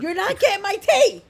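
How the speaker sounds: real scolding yell; yelling at the dog. Real, not acted. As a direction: warn off a pet loudly. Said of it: "Stop yelling at the dog".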